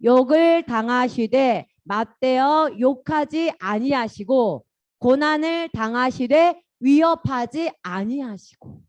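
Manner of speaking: slow, measured Bible reading; slow phrase-by-phrase recitation; reading scripture together. Shown as a demonstration. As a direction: lead children reading a verse aloud. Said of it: "같이 한번 읽어볼까?".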